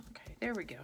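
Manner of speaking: soft relieved whisper; whispered to self. Real, not acted. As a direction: breathe it out as it clicks in. Mutters after fixing piece.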